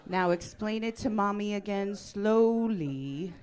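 drawn out, stretching "slowly"; slow right down on "slowly"; slow, patient demand. Retold or imitated. Mom asking daughter to explain again, slowly and deliberately. Baffled mom asks for repeat.

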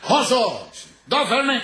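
put-on high drunken holler; calling the waiter. Tipsy friend orders another round, high shouted call. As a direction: holler high across the bar.

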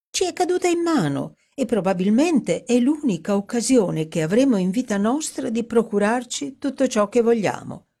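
lightly voiced impatient young woman, pressing; a hint of exasperation, urging him on. Dorothy pushing Edward to seize the chance, mildly impatient. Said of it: "Dorothy si mostrò spazientita".

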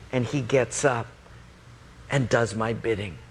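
lightly voiced, measured divine speech; calm, deliberate words with long pauses; God. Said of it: "then God spoke to me".

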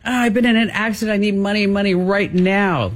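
put-on high, pushed, panicky child's plea; frantic kid begging for money; panicked kid. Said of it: "It's your kid's voice panicked".

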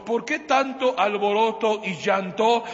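Jesus calming the mourners; Jesus questioning. Acted. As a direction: lift the ending like a song. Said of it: "Jesús entró y preguntó".

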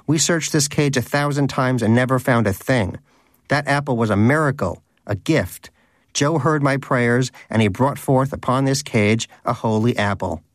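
fervent Donut. Acted. Donut lectures about the miracle.

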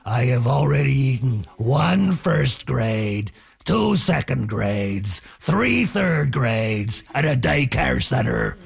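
a hint of a big lazy dragon. Dragon answers the princess.

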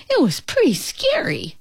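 hushed, spooky whisper. A narrator's reading. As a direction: whisper it like a secret. Narrator hushes a scary moment.

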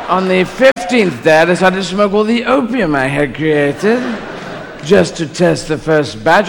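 God recounting creation like a grand actor; James Mason. Acted. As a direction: list each day with stately relish. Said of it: "All right, do the James Mason".

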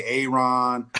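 "Aaron" said as ay-RON; mispronounced name. Retold or imitated. Guest imitating folks who get his name wrong, "Aaron" as ay-RON. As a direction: stretch "Aaron" into AY-RON, slowly. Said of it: "tough for a lot of folks to learn how to say my name".

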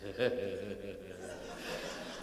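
low, soft giggle to himself; real chuckle. Real, not acted. Comedian tickled by his own joke, real low laugh. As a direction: chuckle helplessly under your breath. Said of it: "I'm sorry for laughing".

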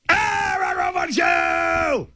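high, slow, shouted DJ intro; mock radio DJ. Co-host hamming up the rock and roll morning show intro.

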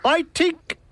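high-pitched Irish character voice; reflective Milligan. A narrator's reading. Milligan muses to himself, lying in the sun, high Irish voice.

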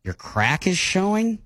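slow, mildly let-down question; disappointed. Shown as a demonstration. Acting-audition joke for the host, disappointed. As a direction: draw it out with a rising, disappointed end. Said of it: "say in a little disappointing tone".

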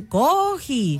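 "coffee" as "kohi" with a breathy h; Japanese-style coffee. Shown as a demonstration. Host teaching Japanese loanwords, "coffee" said as "kohi". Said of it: "ellos dicen coffee".

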